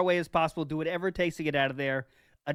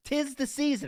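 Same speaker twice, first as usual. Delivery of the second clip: high, falling sing-song; playfully festive, pitched well up; mock-festive; 9 semitones higher than usual. Host to guys about the season of giving, mock-festive.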